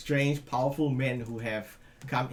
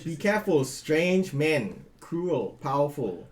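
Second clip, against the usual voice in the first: warning orc voice; 4 dB louder than usual. Acted. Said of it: "he says".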